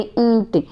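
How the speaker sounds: "ईंट" with the vowel sounding through the nose; nasal vowel. Shown as a demonstration. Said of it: "नाक से ध्वनि निकल रही". ("ईंट" नाक से बोलें)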